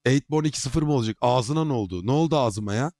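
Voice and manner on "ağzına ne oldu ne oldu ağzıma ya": talking around a hard candy; candy in the mouth; sucking a hard candy. Real, not acted. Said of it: "Ağzımda şeker var, onu hissediyor musunuz?".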